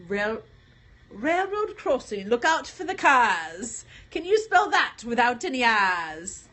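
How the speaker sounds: playful, vague pirate accent with dropped R's. Shown as a demonstration. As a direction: recite it in an uncertain pirate accent. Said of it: "That's a pirate accent".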